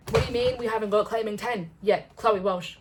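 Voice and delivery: hammed-up complaint to Chloe Walsh; mock outrage. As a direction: call the author out, pretend-indignant.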